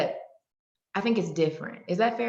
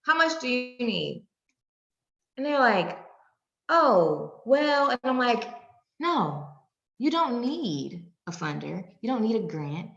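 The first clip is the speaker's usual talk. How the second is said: firm; 4 semitones higher, slower than usual. Retold or imitated. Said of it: "I said".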